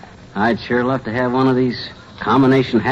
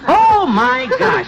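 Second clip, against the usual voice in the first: surprised; 12 semitones higher, much slower than usual. Acted. Surprise at meeting Teeny.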